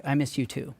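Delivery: softly imitating his wife close to tears; a quiet, teary echo; wife tears up and answers him, quiet and teary; tearful, quiet. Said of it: "she then started tearing up".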